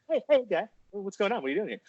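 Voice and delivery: high-pitched mock interrogator; imitated confronting host; Chris from Dateline. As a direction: question him like a TV predator-catcher. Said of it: "It was like, uh, what's his name from Dateline?".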